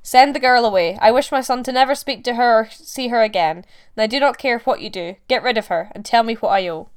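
loud, commanding orders; imperious. A narrator's reading. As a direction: demand it coldly and loud. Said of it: "she answered imperiously".

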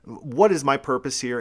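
Jonah's mild mock protest at God; bitter Jonah. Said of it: "Jonah says".

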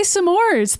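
s'mores in two syllables, "suh-MORZ"; s'mores like Samoa. Shown as a demonstration. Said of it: "I say it the same way as you".

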